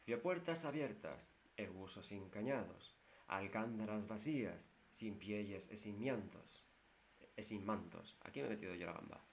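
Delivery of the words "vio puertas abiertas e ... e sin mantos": verse recitation. Shown as a demonstration. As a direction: recite the lines again, pausing at each half. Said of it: "Pero ven ustedes". (recitación pausada del cantar)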